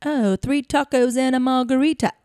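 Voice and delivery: lightly put-on British accent; a hint of London in the order; attempted British accent. Asked for British, orders tacos with a hint of London.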